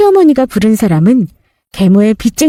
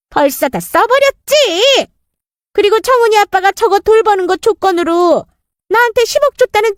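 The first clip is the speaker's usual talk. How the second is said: sneering stepmother; 10 semitones higher than usual. Acted. Stepmother taunts mother-in-law.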